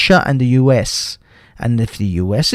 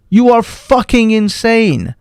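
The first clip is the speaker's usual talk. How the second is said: angry insistence; 5 semitones higher than usual. Real, not acted. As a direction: spell out each word in outrage. Ranting against war push.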